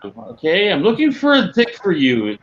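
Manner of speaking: high-pitched mock yell; retold yelling. Retelling what was yelled while searching, mock yelling. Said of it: "No, I was yelling. I was like".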